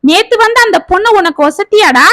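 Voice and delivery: put-on mother rebukes son for choosing the girl, angrily; angry mother. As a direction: scold the son with rising resentment. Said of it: "என்றாள் விசாலம் கோபத்தோடு".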